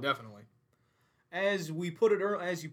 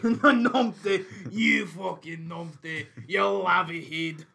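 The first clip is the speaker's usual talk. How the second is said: mock Scottish insult; slower than usual. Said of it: "wee clape".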